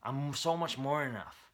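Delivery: slow, deliberate, weighing each word; a drawn-out, emphatic self-affirmation. Shown as a demonstration. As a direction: say it slowly, letting it sink in. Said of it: "to add words to that statement".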